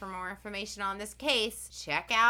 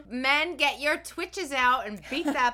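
loud, slow, higher Southern drawl; hammed-up Southern rallying cry; Southern accent; 5 semitones higher, 7 dB louder than usual. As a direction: holler it in a playful Southern accent. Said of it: "Say it with your southern accent".

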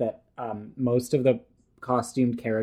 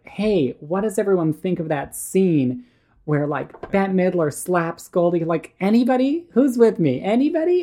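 put-on eager kid calling out; 6 semitones higher, 4 dB louder than usual. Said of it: "And I just wanted to be like".

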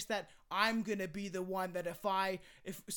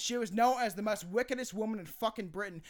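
mock-British case narration; British accent attempt. Podcaster describing the killers, attempted British accent. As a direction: tell it in amateur put-on British. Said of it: "I don't know why I'm attempting this".

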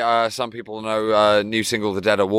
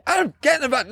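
dad voice; faster than usual. Retold or imitated. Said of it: "he's usually".

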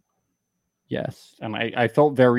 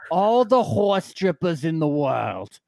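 put-on slow, slurring drunk rant; getting drunker; 3 semitones higher than usual. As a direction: drunk John going on and on. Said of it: "Your impression of John gets drunker and drunker every second".

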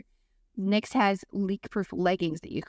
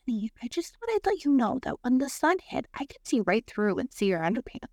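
lightly voiced friend's mom, higher at first; a hint of a well-meaning mom, pitched up; 5 semitones higher than usual. Friend's mom tipping her off about see-through leggings, lightly imitated. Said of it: "my friend's mom goes".

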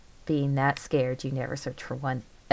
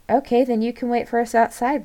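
louder, higher acted retort; brisk retort; 9 semitones higher, 7 dB louder than usual. A narrator's reading. Friend to one refusing to enter the crypt, brisk retort. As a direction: answer the reluctant friend firmly.

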